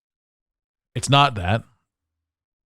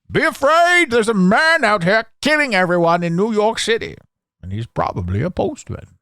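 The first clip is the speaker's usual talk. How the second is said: mock news alarm; 8 semitones higher than usual. Mock TV fear announcement.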